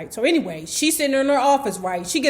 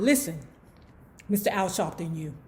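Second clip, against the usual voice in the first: lower, softer, collecting yourself; forced calm; 6 semitones lower, 7 dB quieter, faster than usual. Acted. Woman steadying herself on the phone, trying to be calm. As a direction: rein it in and sound composed. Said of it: "She trying to be calm".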